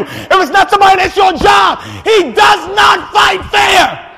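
rising, shouted pulpit preaching that hammers each point; full-force preaching. Acted. Preacher applies fight to congregation.

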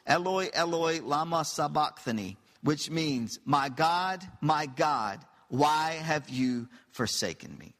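crying out loud, pleading; a preacher voicing Jesus' loud cry from the cross. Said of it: "Jesus cried out in a loud voice".

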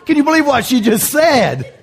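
mock shock through laughter; laughing outrage.

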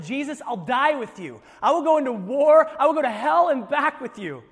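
loud, brash bravado vow; boastful disciple. Retold or imitated. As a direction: swagger like a macho man. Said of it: "the guys that said".

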